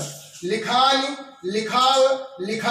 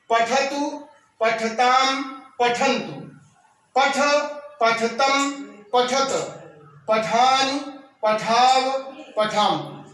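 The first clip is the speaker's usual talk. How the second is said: recite along; much slower than usual. Shown as a demonstration. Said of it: "उच्चारण कर लीजिएगा हमारे साथ".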